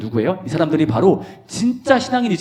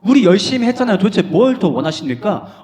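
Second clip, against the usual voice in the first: higher, louder pleading complaint; disciples protesting; 6 semitones higher, 5 dB louder than usual. Acted. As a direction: demand what more Jesus wants. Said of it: "제자들이 따져 물은 거예요". (예수님께 따지는 제자들, 억울한 항의)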